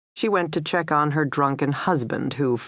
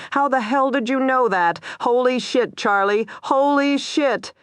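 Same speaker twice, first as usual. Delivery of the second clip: high, amazed disbelief; stunned; 9 semitones higher than usual. A narrator's reading. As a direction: blown away by the call. Officer stunned after arrest.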